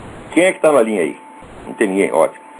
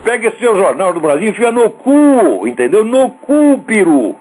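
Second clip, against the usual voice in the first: furious shout; 4 semitones higher than usual. Real, not acted. Ranting host yells an obscenity at the newspaper owner, furious shout. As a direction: blast him with it at full volume.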